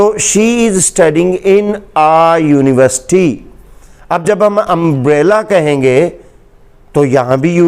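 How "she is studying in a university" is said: slow example sentence. Shown as a demonstration.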